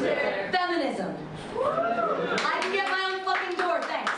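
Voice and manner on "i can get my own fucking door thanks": indignant feminist. Pretend. Feminist answering knock joke.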